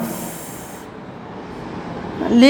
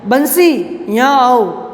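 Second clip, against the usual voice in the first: raised call across the house; calling loudly; 3 semitones higher, 3 dB louder, slower than usual. Acted. Writer calls servant Bansi, loud summons. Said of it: "मैंने जोर से बुलाया".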